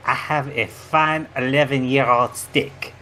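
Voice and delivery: mock-dramatic reveal in a hammed-up French accent; a sly French-accented confession; host reveals he is from another universe, in mock French; fake French accent. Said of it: "outrageous French accent".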